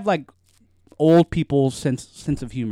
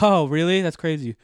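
fake interest; 3 semitones higher, 3 dB louder than usual. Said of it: "That's what I do every day".

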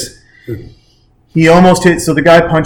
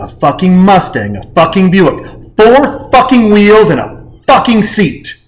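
building furious rant. Retold or imitated. Steve Martin reenacted ranting at the rental clerk, building fury.

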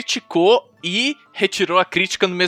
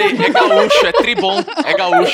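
laughing; 8 semitones higher, 4 dB louder than usual. Pretend. Joking about gaúcho.

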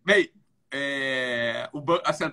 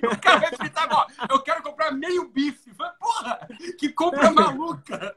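laughing; 10 semitones higher than usual. Retold or imitated. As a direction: crack up mid-sentence. Laughing at the half-steak buyer.

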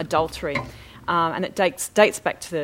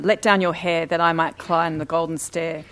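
witch calling; 5 dB louder than usual. Acted. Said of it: "the witch cried".

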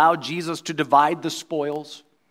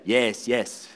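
congregation answering; 3 semitones lower than usual. Retold or imitated. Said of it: "they would have to say".

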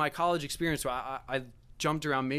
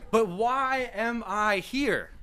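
drawn-out, high wail of a question; mock exasperation; 7 semitones higher, 4 dB louder, much slower than usual. Guest to himself in the strange house, mock exasperation. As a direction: stretch every word out high in exasperation.

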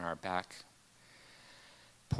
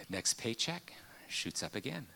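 hushed aside; 7 dB quieter than usual. Real, not acted. Grim aside in sad story.

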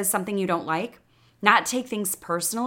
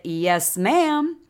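Southern accent. Shown as a demonstration. Host quoting the slogan on her hat, Southern accent. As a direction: put a Southern lilt on it, ma'am jumping up. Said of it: "say it like that in a Southern accent".

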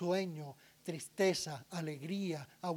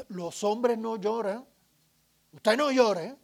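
a hint of a strict father, louder on the end; stern parent; 3 semitones higher, 3 dB louder than usual. Parent telling the crying boy not to cry, mildly stern. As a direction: scold the boy firmly, lightly voiced.

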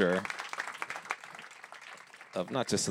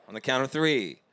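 building countdown; 5 semitones higher, 5 dB louder than usual. Real, not acted. Host counting down the howl.

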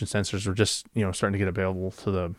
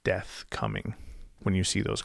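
slow and softer, the father's grave warning; ominous father; 7 dB quieter than usual. Retold or imitated. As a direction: say it slowly, like an old man foretelling doom. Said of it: "He said".

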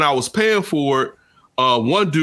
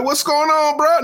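high, puzzled "what's going on, bro"; mock surprise. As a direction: ask it as if caught off guard. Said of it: "I'm like".

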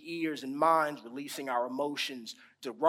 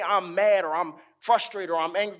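mock angry; 6 dB louder, faster than usual. Shown as a demonstration. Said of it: "they don't just say".

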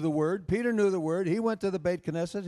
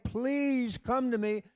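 loving father's plea; 6 semitones higher, slower than usual. Acted. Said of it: "a loving father who's saying".

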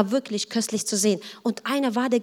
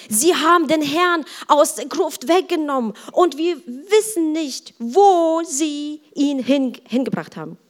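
louder, higher urgent reading; alarmed report; 4 semitones higher, 3 dB louder than usual. Acted. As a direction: read it as breathless news to the disciples. Reads Mary's alarmed report aloud.

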